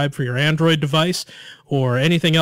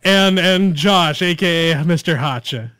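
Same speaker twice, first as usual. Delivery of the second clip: announcer voice; 2 semitones higher, 4 dB louder than usual. Pretend. Hammed-up slow announcer intro.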